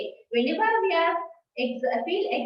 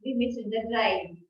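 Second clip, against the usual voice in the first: sad exclamation; 4 semitones lower than usual. Shown as a demonstration. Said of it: "in a sadness you will speak like that".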